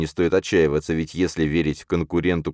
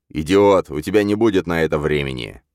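shouting; 4 dB louder than usual. Acted. Villain shouts at hero.

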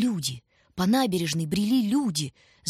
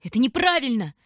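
high, loud protest; cry out; 7 semitones higher, 5 dB louder than usual. A narrator's reading. Tanya crying out against Lyutik's choice. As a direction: fling it out in protest. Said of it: "выкрикнула Таня".

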